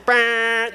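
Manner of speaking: drawn-out buzzing honk, brr; long rude honk. Shown as a demonstration. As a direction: lean on the horn with your voice. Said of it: "If it goes more than that".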